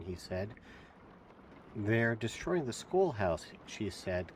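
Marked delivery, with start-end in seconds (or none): 1.7-3.5 slow, gasping for air; breathless gasping words; out of breath. Acted. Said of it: "gasping for breath".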